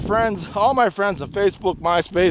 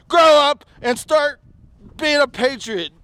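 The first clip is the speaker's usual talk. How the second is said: angry raised voice; 5 semitones higher, 4 dB louder than usual. Real, not acted. Ranting at audience, raised voice.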